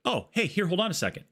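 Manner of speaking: high, quick little man's voice; Danny DeVito impression. To a stranger, offering a Skittle, in a high put-on voice. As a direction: hand over the Skittle like a small friendly man. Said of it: "and he's like".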